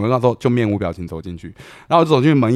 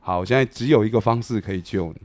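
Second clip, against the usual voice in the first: softer, grave, hinting at a way out; quiet grave offer; 3 semitones lower, 6 dB quieter than usual. Retold or imitated. Offering Weiteng the only way out, quiet and grave. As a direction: dangle the lifeline quietly.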